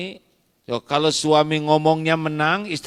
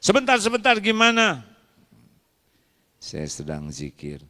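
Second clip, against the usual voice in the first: sharp retort; 6 semitones higher, faster than usual. Acted. Wife's sharp comeback.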